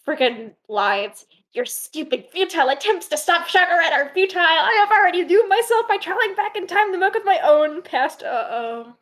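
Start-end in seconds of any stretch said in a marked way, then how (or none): 1.5-8.2 higher, hammier villain read; hammy villain read. Shown as a demonstration. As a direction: ham up the villain boast. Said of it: "full of hammy goodness".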